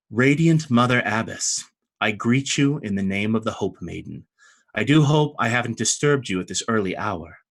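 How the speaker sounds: measured, earnest formal greeting; calm but earnest. Acted. Hope Master greets the Radiant Mother Abbess, calm and earnest. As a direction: greet her with composed, sincere courtesy. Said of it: "in a very calm but earnest voice".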